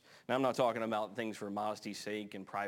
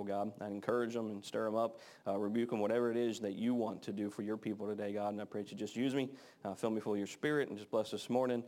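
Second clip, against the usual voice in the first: prayer. Acted. Pastor prays before the sermon.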